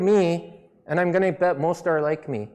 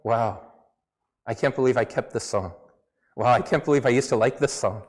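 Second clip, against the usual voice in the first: lower, quick, amused self-scorn; retold wow of disbelief, lower and fast; mock disbelief; 6 semitones lower than usual. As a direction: scoff at your old taste. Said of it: "looking at some of the songs and going".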